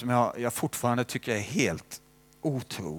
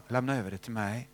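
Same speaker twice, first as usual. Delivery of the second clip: gentle voice of Jesus; 2 semitones lower, 5 dB quieter than usual. Retold or imitated. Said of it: "säger han ju alltid så här".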